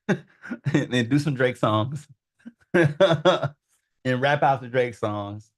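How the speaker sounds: loud, amused, breaking into laughs; laughing. Real, not acted. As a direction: laugh through it, loud and drawn out. Amused by his idea of cloning a rapper.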